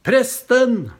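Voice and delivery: high, loud call across a crowd; shouting out. Retold or imitated. Young man shouting for the priest in a busy mall, loud call. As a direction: call out to get the priest's attention. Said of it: "det var meg han ropte på".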